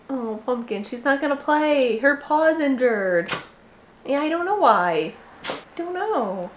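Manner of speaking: tender cooing to a pet; sympathetic pet talk. Real, not acted. Commiserates with dog about injured paw.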